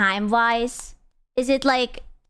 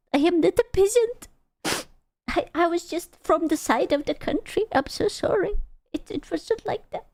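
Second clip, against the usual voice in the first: mock pleading; 5 semitones higher than usual. Playful mock defensive pleading.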